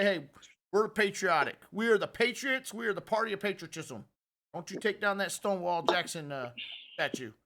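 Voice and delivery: lightly put-on redneck accent; mock a patriotic Republican with a hint of redneck. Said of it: "that's my redneck voice".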